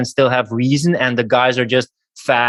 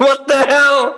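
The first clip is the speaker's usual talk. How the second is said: high, slow disbelieving cry with a laugh; what the hell, up high and drawn out; incredulous; 13 semitones higher, 3 dB louder, slower than usual. Real, not acted. Incredulous at timid men.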